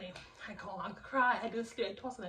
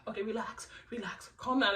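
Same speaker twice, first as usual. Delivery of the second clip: retold soothing. Cousin retold calming the speaker.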